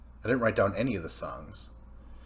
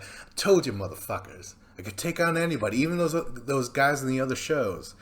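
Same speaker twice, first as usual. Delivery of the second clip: loud, fast, higher brag; cocky louder boast to the crowd; wrestling promo; 4 semitones higher, 4 dB louder, faster than usual. Retold or imitated. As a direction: bellow it like a wrestler cutting a promo. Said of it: "He's cutting a promo".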